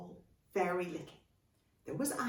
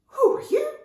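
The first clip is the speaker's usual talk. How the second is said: high, loud, polite little question; very nice voice; 12 dB louder than usual. Acted. Little girl to the surprising dragon, very nice high voice. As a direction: ask nicely, pitched well up. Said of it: "in a very nice voice".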